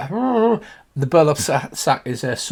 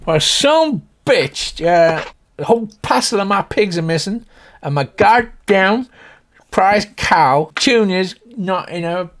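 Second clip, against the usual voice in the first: loud, high farmer's lament; high country voice, heavy on the curses; upset Slim Pickens; 6 semitones higher, 5 dB louder than usual. Acted. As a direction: bemoan it like an outraged cowboy. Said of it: "If you imagine Slim Pickens".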